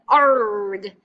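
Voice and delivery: a loud pirate's "Arg"; playful pirate cry read to the class; pirate growl. Retold or imitated. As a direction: bark "Arg" like a cartoon pirate. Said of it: "he talks kind of funny like a pirate".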